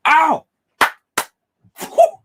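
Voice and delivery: high yelping whoops; excited whoops. Real, not acted. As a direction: let out a thrilled cry. Hyped reaction after the scene.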